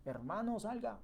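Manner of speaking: Jesus shouting into the tomb for his friend; calling out loud. Retold or imitated. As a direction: call him out of the tomb at full voice. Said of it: "pega el grito".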